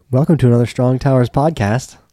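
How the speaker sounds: overeager, way too excited, loud energy. Opening a podcast episode with a welcome, way too excited.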